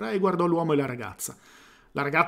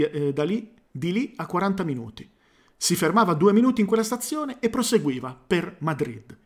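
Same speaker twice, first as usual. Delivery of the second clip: reading aloud with slips and self-corrections; botched read-aloud. Real, not acted. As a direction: push on through a stumbling first read. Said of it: "l'ho letto come un cane".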